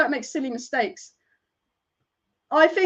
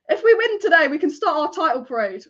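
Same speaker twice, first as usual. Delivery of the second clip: excited burst; 3 semitones higher, 4 dB louder than usual. Real, not acted. Excited about winning the title.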